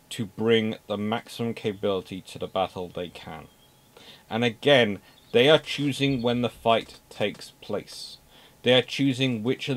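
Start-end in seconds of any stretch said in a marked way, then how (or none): none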